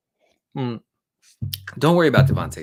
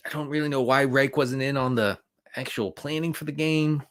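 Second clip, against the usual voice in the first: unvoiced whisper; 3 semitones higher than usual. Real, not acted. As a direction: hush it like a secret aside. Unvoiced confidential remark.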